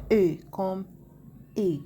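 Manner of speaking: each "E" said as closed French é; é sound demonstrated. Shown as a demonstration. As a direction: model "E" as a crisp French é. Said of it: "Ça se prononce". (chaque « E » prononcé é fermé)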